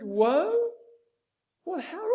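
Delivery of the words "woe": raised, louder woe; emphatic woe. Retold or imitated. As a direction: lean hard on woe. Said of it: "Jesus said".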